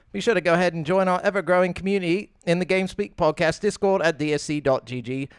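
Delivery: practised podcast host opener; podcast intro. Acted. Host welcomes listeners and lists where to subscribe, podcast intro. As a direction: roll through the show plugs.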